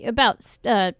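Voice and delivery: stumbling, repeating the word; tongue-tied. Real, not acted. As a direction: trip over the words. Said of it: "got tongue-tied".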